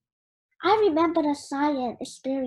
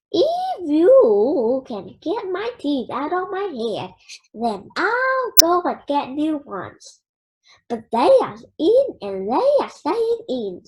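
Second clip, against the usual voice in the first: light gruff grandpa voice, mildly strained; lightly voiced Grandpa; 4 dB louder than usual. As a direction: play Grandpa digging his heels in, a little louder. Grandpa arguing about his teeth.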